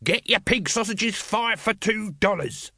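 high, singsong hawker's pitch; street vendor's cry. Acted. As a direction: cry the wares to the crowd. Vendor crying his wares.

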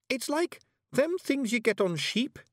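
very high, slow Scots pixie voice; solemn Feegle. A narrator's reading. Awfully Wee Billy explains the hiver to Miss Level, high and slow in Scots. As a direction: tell it like an old tale.

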